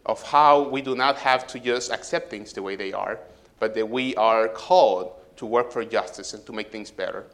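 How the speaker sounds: solemn closing prayer. Acted. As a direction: pray sincerely over the children. Pastor prays for children.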